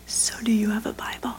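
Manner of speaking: secretive whispered question; quiet whisper. Retold or imitated. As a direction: whisper it so no one hears. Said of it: "She said it quietly".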